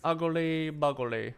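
slow, taunting echo of ugly; childish mock rhyme; mocking singsong. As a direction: drag it out like a schoolyard taunt. Mocking the insult back.

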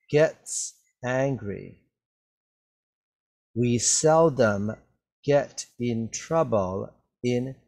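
slow, careful read-through for the class; slow reading aloud. Shown as a demonstration. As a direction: read it out slowly so learners can follow. Teacher reads text slowly aloud.

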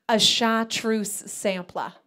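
imitating mom, stretched out slowly; slow, proud. Mom asks her daughter about an appetizer, slowly. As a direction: draw out the dish's name as mom.

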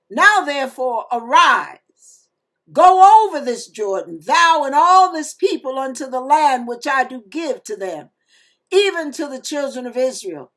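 fast, emphatic Bible reading; scripture reading. Acted. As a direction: read the scripture with conviction. Reads Joshua chapter one aloud.

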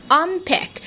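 usual speaking voice

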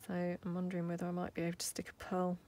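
quick soft whisper. Real, not acted. Crafter musing about adding a pearl, fast whisper. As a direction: think aloud under your breath, quickly.

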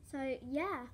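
talking while chewing gum; words around a wad of gum. Real, not acted. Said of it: "Sorry about my gum chewing".

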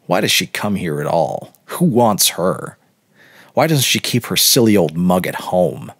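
lightly voiced scornful young man; a hint of a sneering boy; boy's voice. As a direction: play the boy's mild scorn. Boy voiced, sneering at old woman.

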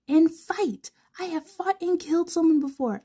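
high, urgent stage whisper; whispered indignant boast; loud whisper. Acted. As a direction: hiss the boast conspiratorially.

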